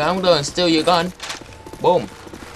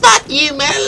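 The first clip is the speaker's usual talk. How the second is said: loud, high-pitched cursing; angry outburst; 7 semitones higher, 5 dB louder, slower than usual. Acted. Losing player cursing rival, angry high outburst. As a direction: snap back loud and high.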